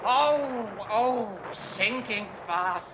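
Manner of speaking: high gasping death throes, slow at the end; dying words. Acted. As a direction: ham up a hero's death. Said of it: "this is my dying scene".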